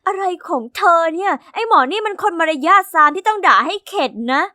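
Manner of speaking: angry outburst. Acted. Girl fuming to her friend in the locker room, indignant. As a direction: vent your anger at the rude boy. Evie fumes at Millie.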